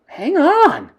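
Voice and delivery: high, loud call; crying out. Acted. Mildred stopping the coven, loud. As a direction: halt everyone. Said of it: "cried the witch".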